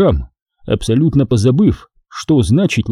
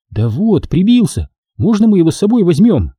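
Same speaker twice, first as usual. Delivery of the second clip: put-on higher girlish voice, asking; pleading girl; 7 semitones higher than usual. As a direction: ask Dad nicely. Girl asks father.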